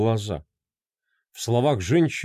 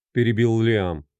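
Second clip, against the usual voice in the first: usual speaking voice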